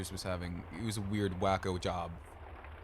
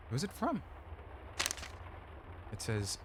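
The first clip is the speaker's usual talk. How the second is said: ordinary delivery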